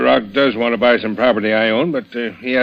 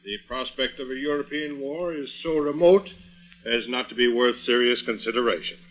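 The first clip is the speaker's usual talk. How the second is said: much softer, dictating from far off; distant dictation; 10 dB quieter than usual. Acted. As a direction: pompously dictate from down the hall. Uncle dictating, approaching from off.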